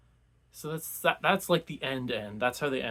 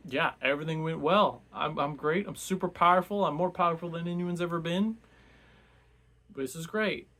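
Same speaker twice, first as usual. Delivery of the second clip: higher, louder, thrilled self-praise; ecstatic gloating; 5 semitones higher, 5 dB louder than usual. Retold or imitated. Triumphant wizard gloating after his win, hammed-up glee. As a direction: crow about your own power. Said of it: "He is just ecstatic".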